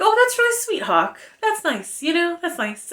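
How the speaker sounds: high, cooing mock gush; swooning reader's reaction, half teasing; gushing at Hawk. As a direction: coo over him like a fan. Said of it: "I was like".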